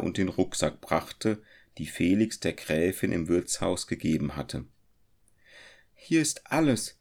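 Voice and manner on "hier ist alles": higher, lightly smiling; gentle welcome; friendly smile. A narrator's reading. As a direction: hand it over kindly. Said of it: "mit einem freundlichen Lächeln".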